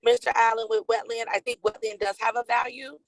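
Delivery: choppy, cutting-out call audio; breaking up space radio. Real, not acted. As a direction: voice breaking up over a bad line. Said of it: "you're breaking up a little bit".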